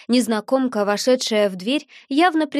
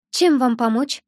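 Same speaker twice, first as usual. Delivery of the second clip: sweet chirpy voice. Acted. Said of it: "прощебетала она сладким голосом".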